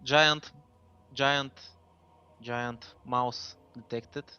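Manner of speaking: slow, fading machine readout; robot voice. Acted. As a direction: announce it like a scanner. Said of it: "he goes".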